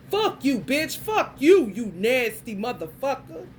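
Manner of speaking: snapping back hard at a creep; retold cuss-out. Mother in Target shouting at a staring man, furious.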